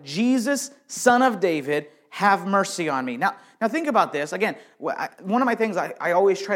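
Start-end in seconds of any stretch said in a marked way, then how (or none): 0.0-3.2 mock shout. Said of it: "So he began shouting".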